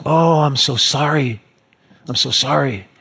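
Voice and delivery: imitating a gushing apology; very apologetic. Young lady to the man she splashed with Frappuccino, very apologetic. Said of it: "she's so apologetic".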